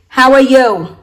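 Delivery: HOW ARE YOU with no rise, loud and even; straight intonation. Shown as a demonstration. Teacher shows learners' habit, straight unvaried tune. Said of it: "Vietnamese would tend to say".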